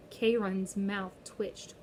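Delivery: usual speaking voice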